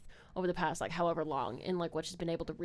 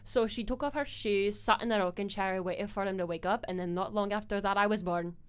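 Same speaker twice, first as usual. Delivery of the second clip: put-on Scottish accent. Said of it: "it's just, like, stuff like that".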